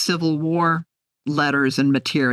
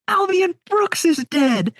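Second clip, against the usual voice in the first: tearful report; 13 semitones higher than usual. Retold or imitated. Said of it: "I'm like".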